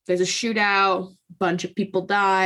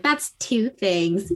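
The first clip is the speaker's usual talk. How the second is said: deadpan reply; slower than usual. Retold or imitated. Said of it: "she's like".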